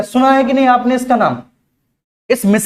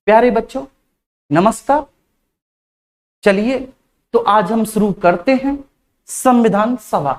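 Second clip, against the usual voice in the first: slow, drawn-out teacher greeting; mock-slow classroom opening. Shown as a demonstration. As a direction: drag each word out like a dull lecturer. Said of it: "क्या आप ऐसे पढ़ना चाह रहे हो?".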